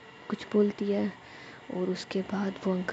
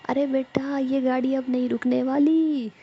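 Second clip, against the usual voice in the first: put-on louder, higher voice of the old driver; driver uncle; 5 semitones higher, 7 dB louder than usual. A narrator's reading. The driver tells the girl he won't stop, calling back. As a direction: call back kindly from the driver's seat.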